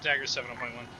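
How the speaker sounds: tinny voice over a radio; distant radio transmission; crackly military radio. Real, not acted. Radio traffic over comms.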